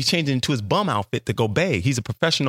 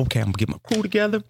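scheming inner voice; 7 semitones higher than usual. Retold or imitated. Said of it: "So I'm thinking to myself".

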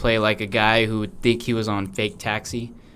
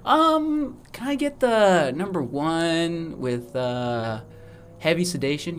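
higher, slow put-on customer voice; mock customer order; 5 semitones higher, slower than usual. Joking friend playing a customer ordering sedation. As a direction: order it like at a drive-thru. Ordering abortion like fast food.

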